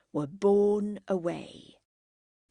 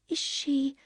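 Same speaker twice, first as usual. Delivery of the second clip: higher, tentative question left hanging; hesitant; 6 semitones higher than usual. A narrator's reading. Margaret delicately asks Henry about the woman, hesitant. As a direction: hold back before the delicate word. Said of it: "Margaret hesitated to add".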